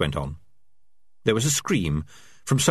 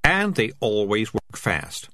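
proud; slower than usual. Acted. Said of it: "said Morris proudly".

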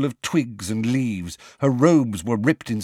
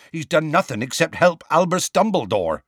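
impatient; 7 semitones higher, 3 dB louder than usual. A narrator's reading. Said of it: "said Hagrid impatiently".

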